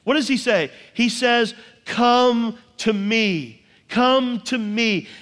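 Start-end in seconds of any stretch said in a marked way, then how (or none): 1.8-5.1 slow, gentle call to come; tender invitation. Retold or imitated. Jesus invites, slow and emphatic.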